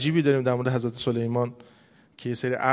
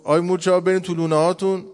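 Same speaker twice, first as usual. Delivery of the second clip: raised, higher calling voice; mock shout; 4 semitones higher, 5 dB louder than usual. Ant warning the other ants to get into their nests, mock shout. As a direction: call out a warning, half-shouted.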